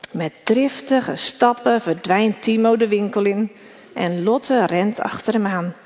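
ordinary delivery

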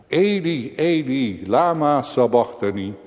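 high, loud anguished call; crying out. Acted. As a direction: call out Eli to heaven. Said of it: "roept de zoon des vaders uit". (luid uitgeroepen klacht)

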